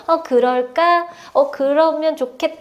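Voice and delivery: slow, meek, giving in; a teacher who lets the kids lead; hesitant yielding reply; meek pushover teacher. Retold or imitated. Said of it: "끌려다니는 선생님".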